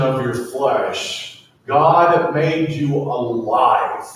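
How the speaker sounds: slow dramatic reading of the verse; solemn scripture reading. Acted. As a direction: read it like a sacred proclamation. Reads scripture slowly.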